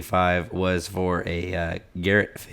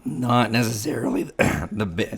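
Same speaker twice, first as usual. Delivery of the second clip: raspy, losing his voice; hoarse voice; 3 semitones higher than usual. Real, not acted. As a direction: croak through a cold. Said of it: "frog voice".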